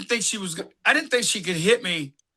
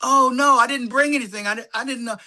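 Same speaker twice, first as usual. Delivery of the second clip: mock surprise; 5 semitones higher, faster than usual. Hammed-up surprise to his co-star over a gift. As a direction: caught off guard, playing it up. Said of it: "I went".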